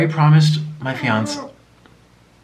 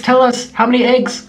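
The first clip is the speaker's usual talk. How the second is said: pet-talk voice; 10 semitones higher, 4 dB louder than usual. Real, not acted. Coaxing the pet sloth.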